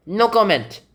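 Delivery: high-pitched stonewalling; firm "no comment". Acted. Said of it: "That's a pretty good no comment".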